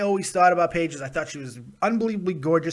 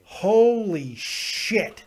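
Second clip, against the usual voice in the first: stunned; 2 semitones higher, much slower than usual. Real, not acted. Donation shock.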